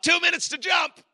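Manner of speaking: high, loud imitated crew yell; shouted countdown warning, acted out; retold yell. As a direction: yell it over the plane noise. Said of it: "they yell out".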